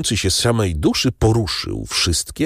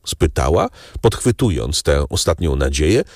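usual speaking voice

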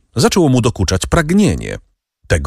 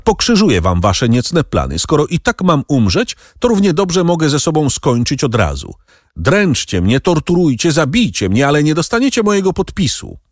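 defiant shout; 7 semitones higher than usual. A narrator's reading. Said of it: "krzyknął Danglars".

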